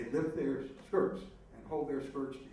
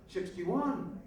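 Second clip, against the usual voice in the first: much higher, mock yell of an inmate; yelled call; 8 semitones higher than usual. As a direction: call the number out high. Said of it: "somebody yells out".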